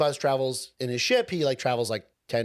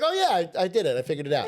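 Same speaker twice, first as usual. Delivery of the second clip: excited; 3 semitones higher, faster than usual. Retold or imitated. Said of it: "he's like".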